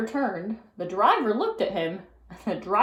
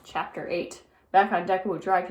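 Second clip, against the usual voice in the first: ordinary delivery, nothing marked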